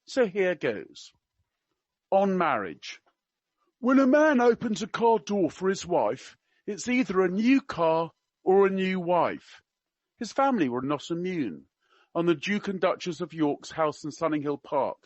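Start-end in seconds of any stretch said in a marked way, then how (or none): 3.8-9.6 put-on higher-pitched go at a Cockney accent; attempted Cockney. Reading out a prince's quips to an audience in attempted Cockney. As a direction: have a try at Cockney. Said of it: "I can't do Cockney. I will try my best".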